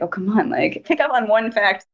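mildly exasperated, pitch lifting at the end; understated irritated plea; retold annoyance. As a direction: recall being fed up, without raising the voice. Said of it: "so annoyed".

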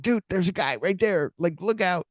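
high-pitched viewer's warning; playful alarm, pitched well up; mock urgent warning. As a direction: call out to an oblivious movie character. Viewer urgently warning the movie character.

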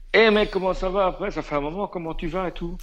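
high-pitched chummy greeting; imitated over-familiar hello; a singer. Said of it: "c'est que Nick Cave se lève".

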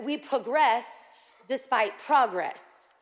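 slow, deliberate pro-GRESS despite PRO-gress; shifted syllable stress. Shown as a demonstration. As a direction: stress "progress" first as pro-GRESS, then as PRO-gress. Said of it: "the wrong emphasis on the wrong syllable".

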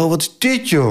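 mock-bewildered exclamation; acted astonishment. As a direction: retell your own stunned reaction. Retells his shock at riot scene.

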